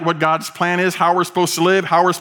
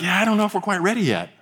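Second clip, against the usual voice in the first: high, quick mock hesitation; mock reluctance; 5 semitones higher, faster than usual. Drivers answering the start call, mock reluctance. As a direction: back out in a higher, hurried voice. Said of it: "and everyone's like".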